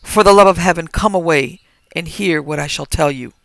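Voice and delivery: loud begging plea; desperate pleading. Acted. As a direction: beg for mercy, loud. Landlord begging them to stop.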